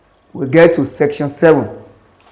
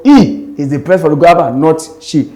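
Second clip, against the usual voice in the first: "He" stressed against "she". Shown as a demonstration. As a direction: contrast "He" with "she", falling at the end. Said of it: "The word he is stressed".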